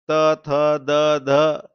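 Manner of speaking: त, थ, द, ध as separate dental syllables with held vowels; dental group demo. Shown as a demonstration. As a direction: sound out त, थ, द, ध on a level tone. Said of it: "एक ही जगह से pronounce होता है". (त, थ, द, ध का अलग-अलग दंत्य उच्चारण)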